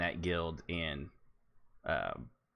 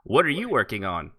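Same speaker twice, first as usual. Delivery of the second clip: ordinary talk, nothing marked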